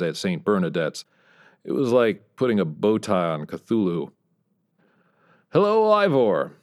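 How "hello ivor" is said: bright, much higher hello; cheerful greeting. A narrator's reading. Bob greets his old rival Ivor, mock cheerful and high. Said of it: "I said cheerfully".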